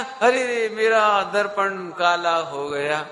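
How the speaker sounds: slow, drawn-out mock dismay; a hint of a deluded man lamenting. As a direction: wail it lightly, stretching the words. Voices the deluded believer's dismay.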